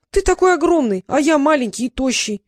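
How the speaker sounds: can't believe it, exclaim; astonished. A narrator's reading. Trix astonished. (Трикс изумлён, громко)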